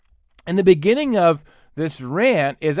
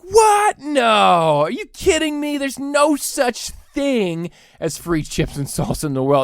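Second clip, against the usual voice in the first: mock disbelief; 6 semitones higher than usual.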